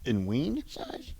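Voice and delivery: slow, quiet leprechaun question. Pretend. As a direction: drag it out as a sly leprechaun. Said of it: "are you Aaron or you're a leprechaun?".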